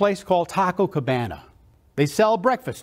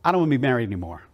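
husband's cold line; 6 semitones lower, much faster than usual. Retold or imitated. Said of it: "Her husband came home one day and said".

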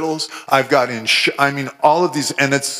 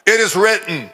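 raised, forceful proclamation; declaring scripture; 4 semitones higher than usual. Retold or imitated. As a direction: proclaim it against hell. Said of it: "that's the way Jesus confronted hell".

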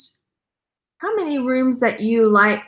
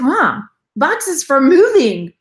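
exasperated; 4 semitones higher, 5 dB louder, much slower than usual. Retold or imitated. Explaining the move to mom.

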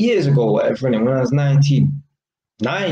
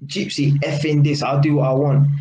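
mock retort. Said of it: "And your response is".

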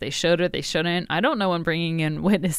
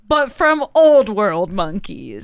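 quoting a pompous orator; 3 semitones higher, 4 dB louder than usual. Retold or imitated.

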